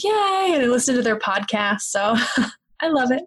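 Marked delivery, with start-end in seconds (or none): 0.0-0.5 high, delighted little cheer; excited yay. Retold or imitated. Listener loving the English lecturers' accent, excited cheer. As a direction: squeal it like a happy fan. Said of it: "I'm like".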